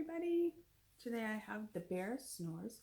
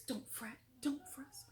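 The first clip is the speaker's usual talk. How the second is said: much softer, gentle comfort; soothing mouse; 4 semitones higher, 7 dB quieter than usual. A narrator's reading. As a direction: hush the bear kindly. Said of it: "Mouse squeaks".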